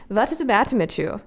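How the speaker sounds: put-on slow, heavy German accent; villainous German accent, drawn out; movie villain german accent. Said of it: "when I started doing that German accent".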